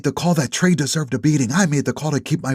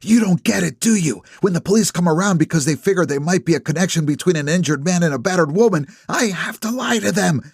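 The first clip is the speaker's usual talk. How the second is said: Ellie voiced higher, indignant and pressing; angry accusation; 9 semitones higher than usual. A narrator's reading. Ellie confronts Nap in the driveway, higher, indignant and pressing. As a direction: push him hard on the line he crossed.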